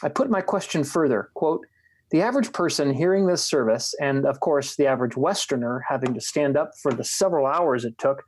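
measured reading of a written dialogue; book reading. A narrator's reading. Host reads a bishop interview to a friend, measured book reading. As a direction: read the passage aloud deliberately, phrase by phrase.

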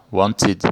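Wanted in two syllables, "WON-tid". Shown as a demonstration. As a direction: say Wanted with an added short I before the D. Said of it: "como se tivesse um I junto ali". (Wanted com um I antes do D final)

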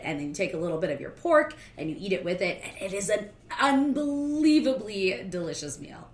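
talking while eating crunchy snacks; chewing, crunching in the background; crunching chips. Real, not acted. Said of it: "if you can hear me crunching".

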